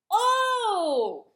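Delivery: sudden high shrieking "Oh!"; loud cry. A narrator's reading. Turkey crying out at the dog. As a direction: shriek it out in surprise. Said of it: "cried the magnificent Ocelotta".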